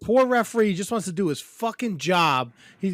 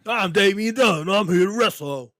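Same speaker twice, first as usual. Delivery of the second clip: Damian Dunn impression; 2 semitones higher, 4 dB louder than usual. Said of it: "give me your best, uh, Damian Dunn impression".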